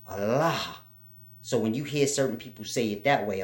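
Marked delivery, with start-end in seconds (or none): 0.1-0.8 "Allah." said with a falling end and a touch of breath after it; Allah with final h. Shown as a demonstration. Showing students how the spelling with h sounds. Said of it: "you can hear the difference".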